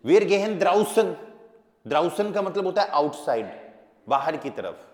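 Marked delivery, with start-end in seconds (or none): 0.1-1.1 very slow, higher and louder; slow dictation. Shown as a demonstration. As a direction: dictate word by word. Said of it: "teacher dictating slowly". (धीरे-धीरे, ज़ोर से लिखवाते हुए)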